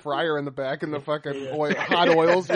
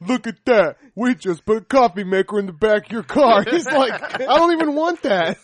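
hyped host voice; 5 semitones higher, 7 dB louder than usual. Pretend. Acting out Pimp My Ride scene.

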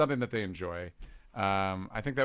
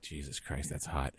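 go-to joke voice; 8 semitones lower, 10 dB quieter, slower than usual. Retold or imitated. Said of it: "I'm like".

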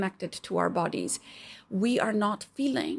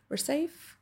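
soft, higher, rising "safe" to comfort; soft lifted reassurance; 6 semitones higher, 6 dB quieter than usual. Retold or imitated. Reassuring your body it is safe, soft and rising. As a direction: lift the word "safe" gently upward. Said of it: "and we trust".

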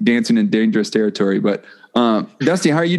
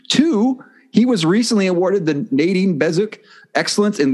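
an upbeat, rhythmic host read, pitched up and counting off points; announcer voice; 2 semitones higher than usual. Acted. Host introducing Tim to listeners, in his announcer voice. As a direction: introduce the guest like a radio announcer.

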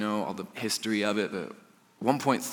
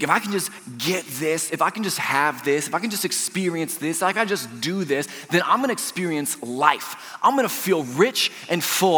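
eager longing; 7 semitones higher, 4 dB louder than usual. Retold or imitated. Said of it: "We think".

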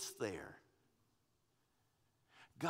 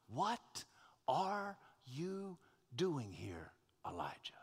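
gentle question; 5 dB quieter, slower than usual. Retold or imitated. God's question, gently voiced.

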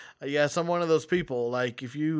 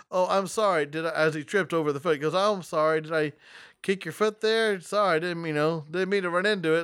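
mild sarcasm. Retold or imitated. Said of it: "kinda sarcastically speaking".

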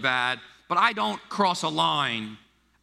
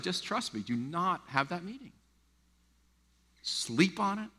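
gentle counsel; 7 dB quieter than usual. Retold or imitated. Father counsels softly.

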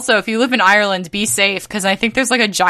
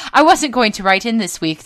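hammed-up posh British voice; put-on British accent, lightly done; mock British accent. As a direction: read it like a posh English gent. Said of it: "if I didn't do the accent, I kept tripping".

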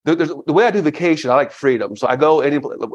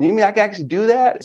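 excited; 9 semitones higher, faster than usual. Retold or imitated. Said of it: "And you see me get excited".

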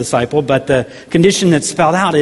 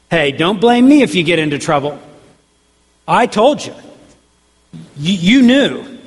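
acted told-you-so, pitch jumping on the last phrases; mock disclaimer; 2 semitones higher than usual. Voicing Jesus warning followers about trouble, mock disclaimer.

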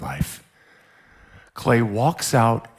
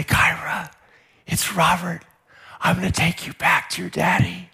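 higher, unhurried rescuer's voice; gentle reassurance; 7 semitones higher than usual. Acted. Rescuer telling lost girl who he is, gently. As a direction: reassure a frightened child. Soothing a lost crying child.

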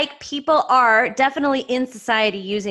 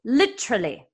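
put-on husband's Mexican accent. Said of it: "He says".

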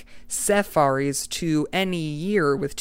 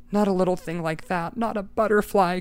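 cried out; 4 semitones higher than usual. Acted. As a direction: plead against the truth. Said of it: "cried Eccles".

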